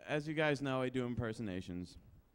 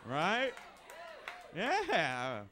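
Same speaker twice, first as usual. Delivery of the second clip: halting delivery with odd, long pauses; slow, broken-up celebrity impression; Christopher Walken; 3 semitones higher, much slower than usual. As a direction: stretch words out, pitch jumping up oddly. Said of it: "like, Christopher Walken was Secretary of Defense?".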